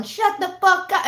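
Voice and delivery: high, loud mock shriek; mom yelling. Imitating mom yelling at the dog, high mock shriek. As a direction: screech it like an angry mom. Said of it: "my mom yelling".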